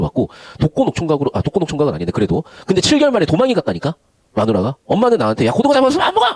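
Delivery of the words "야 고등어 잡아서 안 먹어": high, sharp mock yell of a scolding mom; mother yelling. Mother scolding her son in a mock yell. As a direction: bark it out like an exasperated mother. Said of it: "하시는 거야".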